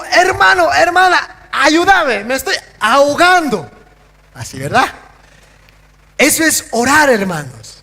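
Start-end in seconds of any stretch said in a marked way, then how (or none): 0.0-3.7 pleading for help. Pretend. Drowning man calls for help.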